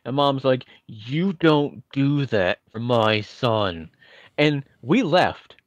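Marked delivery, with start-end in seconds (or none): 0.9-3.9 stern mom. Retold or imitated. Mom's final stern line.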